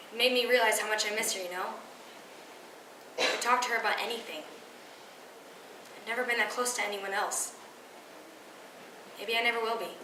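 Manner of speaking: hushed, missing someone; wistful grief. Acted. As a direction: confide a quiet sadness, almost to yourself. Monologue about missing dead grandma.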